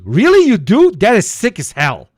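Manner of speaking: high, loud, amazed gasp of a question; mock amazement. Real, not acted. Streamer gushing over fans who make edits, high amazed. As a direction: act wowed by the news.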